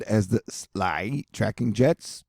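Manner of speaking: whispered, slow and sneaky; sly whisper. Pretend. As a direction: breathe it like a secret.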